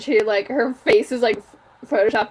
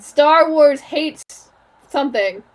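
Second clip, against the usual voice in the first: slow headline voice, pitched higher; outraged YouTuber; 4 semitones higher, 4 dB louder, much slower than usual. Acted. Imitating a video thumbnail's text, outraged YouTuber. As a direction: announce it slowly like a clickbait thumbnail. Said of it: "think like a racist YouTuber".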